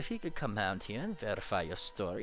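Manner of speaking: fancy put-on guard voice, rising in pitch on the refusals; haughty guard. Guard bars the party from entering, haughtily. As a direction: refuse them entry in a put-on official voice.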